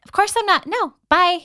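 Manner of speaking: snappy, dismissive "no way" reply; sassy refusal. Retold or imitated. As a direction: brush off a stranger with mock scorn. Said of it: "And I'm like".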